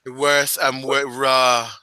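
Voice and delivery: slow, drawn-out teaser voice; sensual promo. Pretend. Wrestler teasing fans about her debut, sensual. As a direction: stretch the words out, sultry promo style. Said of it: "That's a horrible Australian accent".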